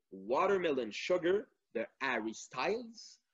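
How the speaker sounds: English title in a convincing English accent; strong English accent. Real, not acted. Quiz host reading song choices to listeners, strong English accent. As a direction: say the names with good English pronunciation. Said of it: "qui a un fort accent anglais qui est très bon".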